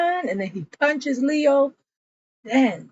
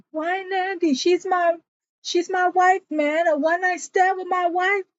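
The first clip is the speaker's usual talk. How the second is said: higher, pained pleading accusation; mock heartbroken outrage; acted anguished anger; 8 semitones higher than usual. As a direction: retell it like a wounded husband. Husband confronting over wife.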